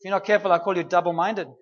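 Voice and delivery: fast, laughing through the words; a chuckling jab; laughing tease. Retold or imitated. God teasing, laughing.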